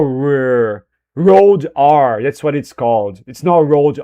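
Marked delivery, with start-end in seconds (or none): 0.0-0.9 R as a drawn-out English "rrr". Shown as a demonstration. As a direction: hold the R slowly, English style.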